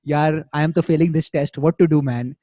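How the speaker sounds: exaggerated Indian English accent, lightly done; mock Indian accent. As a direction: play up a stereotypical Indian accent mixed with Hindi. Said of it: "and then to the fucking Indian, you're like".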